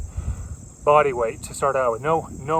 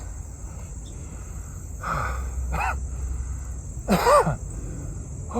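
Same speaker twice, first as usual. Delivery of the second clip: heavy exhale; 5 dB quieter than usual. Real, not acted. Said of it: "catching my breath here".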